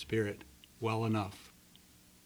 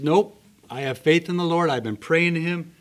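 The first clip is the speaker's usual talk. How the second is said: shouting back; 5 semitones higher, 9 dB louder than usual. Acted. Man shouts back at helicopter.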